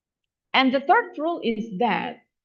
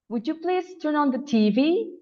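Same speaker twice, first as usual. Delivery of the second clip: higher pitch, climbing to T V at the end; stress on TV; 5 semitones higher than usual. Shown as a demonstration. English teacher showing staircase intonation, noun TV stressed. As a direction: lift the noun T V at the end of the question. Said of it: "they are categorized as noun".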